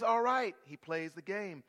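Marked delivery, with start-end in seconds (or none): 0.0-0.6 loud, higher, cocky shout; Samson shouting. Acted. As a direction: boom it out like a proud strongman. Samson voiced in retold story.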